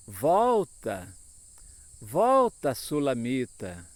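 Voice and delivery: loud, drawn-out repeated call. Retold or imitated. Preacher repeats the verse's call to the Sulamita, calling out. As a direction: call it out, letting each word fall.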